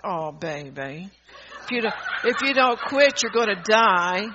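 sarcastic tender coax; mock soft coddling. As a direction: coo it like soothing a child. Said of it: "why should Jesus softly say".

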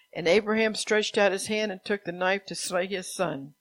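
projected, even read-aloud; scripture reading. A narrator's reading. Preacher reads Abraham's story from Genesis, scripture reading. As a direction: read the Bible story out to a congregation.

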